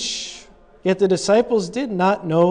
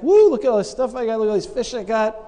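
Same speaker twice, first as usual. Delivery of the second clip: excited gloat; 4 semitones higher, faster than usual. Retold or imitated. Peter gloats over big catch.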